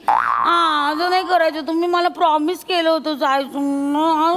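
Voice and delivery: slow, drawn-out wheedling complaint; pleading whine. Acted. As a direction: whine about the broken promise, stretching words. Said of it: "ए, हा सूर नकोय मला".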